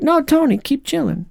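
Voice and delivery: high, teasing hammed-up Fury; mock Nick Fury. Host jokingly voicing Nick Fury to Tony, hammed-up. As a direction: play Fury as a cool joker.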